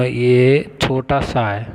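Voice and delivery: "ये छोटा सा है" said very slowly, each word drawn out for the class; slow pointing out. Shown as a demonstration. Teacher showing students the small sa letter, very slowly. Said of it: "सा, ये छोटा सा है ये".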